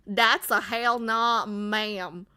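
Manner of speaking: a touch of Southern drawl, slow; Southern accent. Shown as a demonstration. Streamer trying a Southern line for chat, slow Southern drawl. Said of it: "Was that Southern?".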